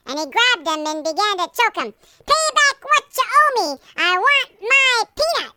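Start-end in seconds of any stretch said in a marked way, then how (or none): 2.3-5.5 high, loud shouted demand; angry demand. Acted. First servant choking the debtor, shouting high and loud. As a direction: bark it at him like a bully.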